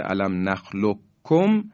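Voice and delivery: نخلقکم with a doubled k, no q; qaf merged into kaf. Shown as a demonstration. Tajweed teacher recalling the example, double k in نخلقکم. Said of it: "همین قاف و کاف".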